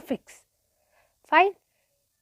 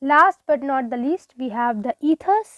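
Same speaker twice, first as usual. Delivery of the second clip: drawn-out, deliberate announcing; slow announcement; 3 dB louder, much slower than usual. Shown as a demonstration. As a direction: spell each word out slowly for the class. Teacher announces final topic slowly. (धीमी, ठहरी हुई घोषणा)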